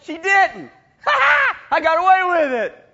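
loud, high triumphant crowing; a gleeful yell of victory; gleeful shout. Real, not acted. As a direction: crow it like you got away with it. Triumphant punchline of story.

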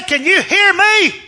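high, loud, drawn-out question; retold shout. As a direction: shout it slowly to someone nearly deaf. Shouting to check she hears.

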